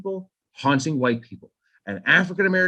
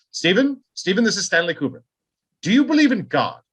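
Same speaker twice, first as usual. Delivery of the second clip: a badly faked British accent, high; hammed-up British accent with a high call of Stephen; terrible British accent; 5 semitones higher than usual. Kubrick phoning King at night, bad British accent. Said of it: "a terrible British accent there".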